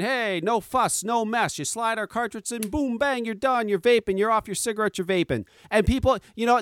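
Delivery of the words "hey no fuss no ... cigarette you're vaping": lightly voiced commercial salesman, higher pitch; imitated ad pitchman. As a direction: mimic an easy-going product pitch. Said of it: "they got their guy behind saying".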